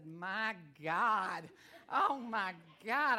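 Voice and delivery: mock shock. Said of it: "I heard myself talking".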